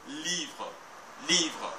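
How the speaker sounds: livre with LI long and strong, light final e; livre, said deliberately with a held vowel; stress on last sounded syllable. Shown as a demonstration. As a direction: lean on "li" in livre. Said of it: "les plus fortes. Par exemple".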